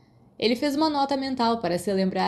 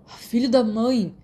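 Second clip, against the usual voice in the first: slow, louder pained yell; cursed boy yelling at his attacker; shouted curse; 4 semitones higher, 5 dB louder, slower than usual. Acted. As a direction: cry out in stinging pain. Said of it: "ele gritou".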